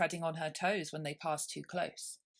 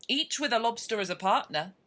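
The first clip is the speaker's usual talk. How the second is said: a raised, eager call; Griffin's cry; 5 semitones higher, 7 dB louder than usual. Acted. Griffin explaining the dance with a raised, eager cry. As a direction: call it out with gusto. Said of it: "cried the Griffin".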